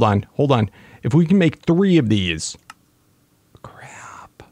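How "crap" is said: breathy under-the-breath crap; whispered exasperation; whispered curse. Real, not acted. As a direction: mutter it to yourself, unvoiced. Realizes problem, under breath.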